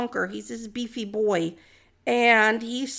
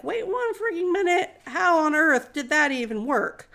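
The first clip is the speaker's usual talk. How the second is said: shocked; 4 semitones higher than usual. Retold or imitated. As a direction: act out a baffled double take. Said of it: "Saul's just shocked".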